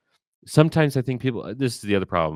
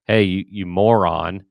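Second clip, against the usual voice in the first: mock blasting; 5 dB louder than usual. Emergency manager imagining scolding an unprepared campus team, mock blasting. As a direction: lay into them, half in earnest, landing on the insult. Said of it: "going in and blasting them".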